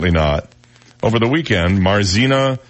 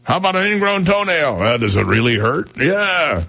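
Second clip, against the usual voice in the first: much higher goofy stoner voice; mock Missouri stoner; 10 semitones higher than usual. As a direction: play the eager weed dealer, way up high. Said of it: "They all talk like that in Missouri".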